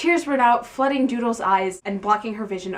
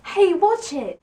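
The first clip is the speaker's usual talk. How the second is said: high, louder mock-angry huff; angrily; 10 semitones higher, 4 dB louder, slower than usual. Louis warning the ex-boyfriends, hammed-up anger. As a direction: snap it out, hammed-up annoyance. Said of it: "Louis huffed angrily".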